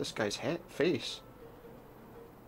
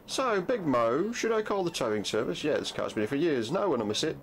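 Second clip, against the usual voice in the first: slightly theatrical, higher-pitched local; lightly voiced townsperson; 5 semitones higher than usual. Local asks Big Mo about towing a car, lightly put-on voice. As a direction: lightly act out overheard street talk. Voices an overheard game conversation.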